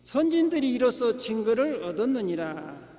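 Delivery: loud, measured scripture reading; solemn, projected Bible recitation. Real, not acted. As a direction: read the verse out firmly to the congregation. Reads scripture aloud to congregation.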